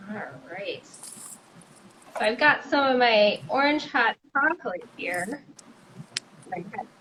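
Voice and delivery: muffled, like speaking under water; as if the mic were underwater. Real, not acted. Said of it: "you sound like you're underwater".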